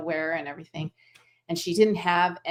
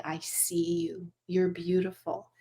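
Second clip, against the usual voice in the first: tender. Retold or imitated. Student on the highway blessing the trapped animals, tender. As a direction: speak it like a caress through the truck walls.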